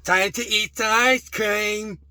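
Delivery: big, slow, loud cheer; excited announcement. Acted. Vlogger hypes viewers before eating ice cream, excited shout.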